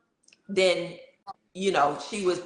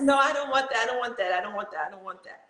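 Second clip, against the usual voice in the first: frantic refusal; 5 semitones higher, faster than usual. Retold or imitated. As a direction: mimic her panicked refusal in labor, speeding up and dying away. Refusing the block in labor.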